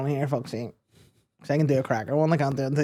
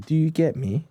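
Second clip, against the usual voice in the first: put-on measured London street accent, raised; calm Top Boy accent; 4 semitones higher than usual. Top Boy character getting serious, calm street accent. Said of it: "they just get calm".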